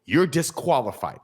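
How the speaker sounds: high, emphatic mock referee call; very audible warning. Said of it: "very audibly".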